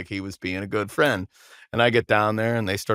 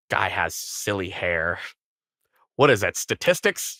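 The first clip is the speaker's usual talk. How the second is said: mock grandma. Voicing his grandma at Thanksgiving.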